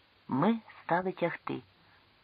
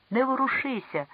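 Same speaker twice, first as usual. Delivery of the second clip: shouted warning; 9 semitones higher than usual. Acted. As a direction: call much higher into the cave. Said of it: "гукнув він у печеру".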